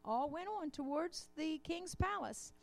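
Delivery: storybook read-aloud with lightly voiced animals; reading a children's story. A narrator's reading. Reads children's tale in sermon.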